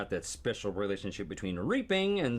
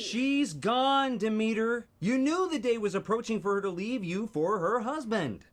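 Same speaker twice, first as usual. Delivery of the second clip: loud dramatic declaration; 10 semitones higher, 5 dB louder than usual. Acted. Scene rerun, big delivery.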